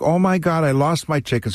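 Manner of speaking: retold frantic. Poor lady who lost her chickens, mock frantic. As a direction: lightly imitate someone in a panic. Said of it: "like, frantic".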